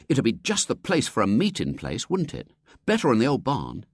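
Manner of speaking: put-on boy pitching an idea to his friends; lightly voiced William. William proposing the house, eager boy voice.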